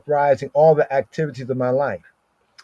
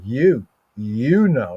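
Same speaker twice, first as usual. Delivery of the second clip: YOU drawn out and leaned on; stress on YOU; slower than usual. Shown as a demonstration. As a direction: put all the weight on YOU. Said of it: "here it is emphatic".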